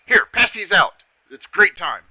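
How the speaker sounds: high, loud, pushy cheer; cheerful satyr. Acted. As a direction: shove the tray at him merrily. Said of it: "He goes".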